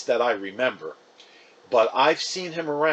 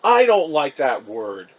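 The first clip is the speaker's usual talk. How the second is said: yelled; 7 dB louder than usual. Acted. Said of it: "Mom yelled".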